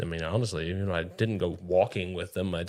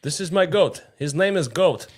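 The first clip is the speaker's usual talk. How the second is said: dim-witted guy voice; 7 semitones higher, 6 dB louder than usual. Retold or imitated. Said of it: "Knowing him, he named it something dumb".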